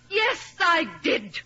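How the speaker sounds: slow, shouted admission; dramatic defiant yes; defiant confession. Acted. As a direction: throw the truth at him, slowly. Confesses helping mother die.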